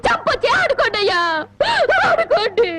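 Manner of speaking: sobbing through the words, voice breaking; crying plea. Acted. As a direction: beg him through tears, bitter at the end. Wife breaks down pleading husband. (ఏడుస్తూ వేడుకోలు)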